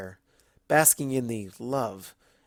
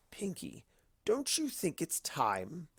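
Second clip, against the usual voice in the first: much softer and slow, drawn-out tease; slow, soft Discord; 6 semitones higher, 9 dB quieter, slower than usual. Acted. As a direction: lean in and stretch every word. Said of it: "Discord said slowly".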